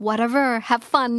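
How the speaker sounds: mild sarcastic brush-off; lightly sarcastic have fun. Shown as a demonstration. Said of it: "ประชดมาก".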